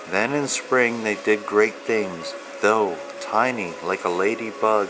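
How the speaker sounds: steady, rhythmic read-aloud of rhyming verse; reading to children. Acted. Author reading his picture book to young children, rhythmic storyteller voice. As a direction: lilt through the rhymes like a bedtime book.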